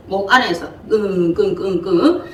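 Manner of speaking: a light imitated groan, half laughing; groaning in the throat. Shown as a demonstration. 교인들에게 욥의 앓는 소리를 흉내 내는 가벼운 신음. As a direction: groan it out from the throat, not too seriously. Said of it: "자기 앓는 소리도 이 목에서 끊어지지 않고".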